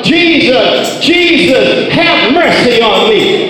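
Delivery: preacher acting out a beggar's cry; shouted plea. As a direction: call out for mercy, drawing out the name. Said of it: "he just shouted out".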